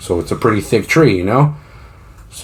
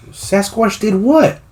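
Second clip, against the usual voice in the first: stretched out, much higher, slow and baffled; incredulous disbelief; 12 semitones higher, much slower than usual. Retold or imitated. Farm owner hearing Sasquatch killed his workers, stunned disbelief. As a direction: ask it like you can't believe your ears.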